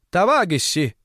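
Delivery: lisping Тавагисси for товарищи; says w for r. A narrator's reading. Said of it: "обратился к нам мужчина средних лет картавя".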